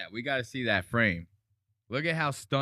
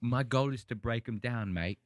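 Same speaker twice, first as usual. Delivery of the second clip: lightly put-on British accent; Anthony Joshua. Streamer quoting the boxer's pre-fight interview, light British accent. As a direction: imitate a British boxer, matter-of-fact. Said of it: "interviews with Anthony Joshua before this".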